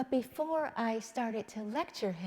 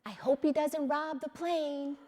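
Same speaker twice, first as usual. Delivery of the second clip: put-on a touch higher, innocent little boy; child's voice; 5 semitones higher, 3 dB louder than usual. Mother quoting her son on the plane, light child voice. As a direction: lightly voice her small son's worry. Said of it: "and he says".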